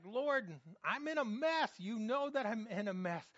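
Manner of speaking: pleading prayer. Pretend. Preacher acts out a desperate prayer.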